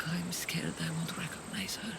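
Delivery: whispered confession; fearful whisper. Acted. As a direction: barely voice the worry. Confessing fear about daughter.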